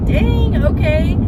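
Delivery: high-pitched, impressed reaction; taken aback. Retold or imitated. Reacting to the old lady's outburst.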